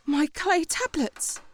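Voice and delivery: slow, soft disbelief; stunned dismay. Acted. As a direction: take in the loss quietly. Sees her tablets smashed.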